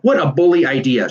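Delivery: high, loud burst of delight; excited shout. A narrator's reading. Warren cheering Tom's idea, shouting. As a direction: shout it out with glee. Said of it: "shouted Warren".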